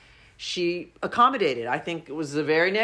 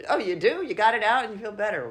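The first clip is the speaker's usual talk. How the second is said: put-on talking to a small child; 4 semitones higher than usual. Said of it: "It's like a small child".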